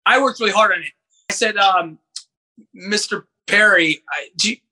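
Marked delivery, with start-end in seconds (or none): 2.7-4.6 halting, tentative plea with restarts; falter, break off and try the words over; imitated stuttering. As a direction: stumble nervously into a polite request. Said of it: "I was, like, stuttering".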